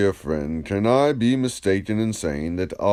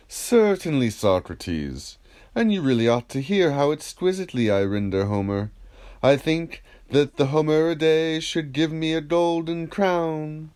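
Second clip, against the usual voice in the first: a lightly raised, proud rhapsode's voice; a hint of a vain performer showing off; boastful Ion; 7 semitones higher than usual. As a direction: let Ion preen a little, voice lifted. Ion boasting about rendering Homer.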